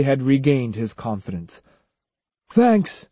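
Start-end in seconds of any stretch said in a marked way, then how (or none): 2.5-3.1 called back. A narrator's reading. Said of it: "he called back".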